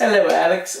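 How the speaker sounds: lightly attempted Mary Poppins accent; terrible accent. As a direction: greet in a badly faked Mary Poppins accent. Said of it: "that was a terrible accent".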